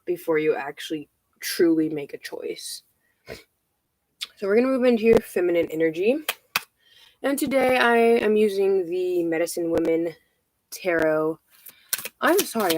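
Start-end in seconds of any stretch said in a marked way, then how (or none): 4.4-12.8 breathless, rushing the words; out of breath. Real, not acted. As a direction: talk while catching your breath. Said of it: "I'm so out of breath".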